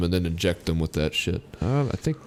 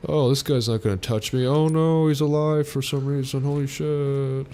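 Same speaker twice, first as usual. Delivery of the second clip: mock surprise; 7 semitones higher than usual. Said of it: "then be like".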